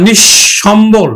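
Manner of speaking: slow নিঃসম্বল as nish-shombol; doubled palatal sh. Shown as a demonstration. Teacher correcting the example, slow nish-shombol in নিঃসম্বল. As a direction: sound out নিঃসম্বল slowly with a double sh. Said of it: "তারপরে এখন উচ্চারণ দেখো".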